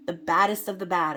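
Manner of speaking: "baddest" punched loud and falling; stress on BADDEST. Real, not acted. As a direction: hit the word "baddest" hard, fall at the end. Emphatic warning to the viewer.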